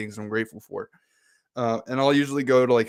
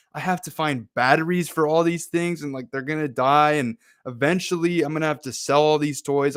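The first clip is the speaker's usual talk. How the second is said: put-on whiny pessimist teen; 3 semitones higher than usual. Pessimist twin whining about gifts.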